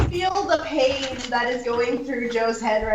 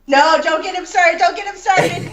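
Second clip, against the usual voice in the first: laughing protest; 3 semitones higher, 4 dB louder than usual. Real, not acted. Begging others not to start.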